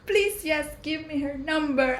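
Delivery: retelling her own high, eager yes to the offer. Retold or imitated. To her cousin, eagerly accepting the friend's number, excited. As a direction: squeal the yes, half laughing, mock excited. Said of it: "And I was like".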